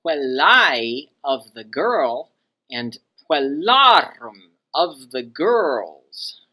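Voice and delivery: put-on slow, swooping up on "puellae", "puellarum" and "girls"; stretched, exaggerated stress on the endings of "puellae" and "puellarum"; high genitive endings. Shown as a demonstration. Teacher giving feminine genitives, endings swooped up and drawn out. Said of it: "saying these genitives in a high pitch".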